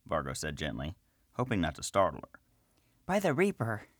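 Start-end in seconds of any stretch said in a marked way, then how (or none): 3.0-3.9 high, jumpy gnome priestess gasping out an oath; startled cry. Acted. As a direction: sound caught off guard. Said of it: "the woman cried as she jumped back".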